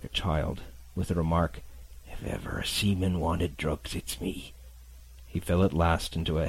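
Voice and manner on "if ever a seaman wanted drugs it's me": weak, fading voice. Acted. Captain takes his medicine.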